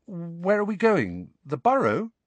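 hoping for the Burrow; hopeful. Acted. Harry asking Lupin where they go, hopeful. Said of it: "Harry asked hopefully".

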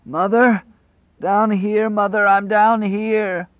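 high, drawn-out ecstatic call; crazed prisoner calling from afar; rapturous hoarse cry. A narrator's reading. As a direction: call out in mad rapture, loud and slow. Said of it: "came the rapturous hoarse answer".

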